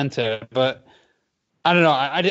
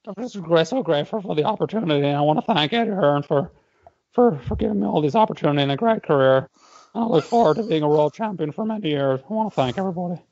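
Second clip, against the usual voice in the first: mock gushing speech; 2 semitones higher, faster than usual. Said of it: "reenactment of Katie's speech".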